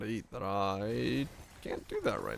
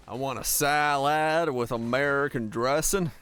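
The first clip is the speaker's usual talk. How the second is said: put-on American accent; 3 semitones higher, 4 dB louder, slower than usual. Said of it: "risky to order an American accent".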